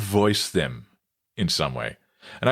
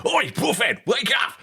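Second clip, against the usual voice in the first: mock rude wake-up. Older brother shaking him awake on his birthday, mock yell. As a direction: imitate a brother's high-pitched wake-up yell. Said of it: "he just decided to calmly wake me up".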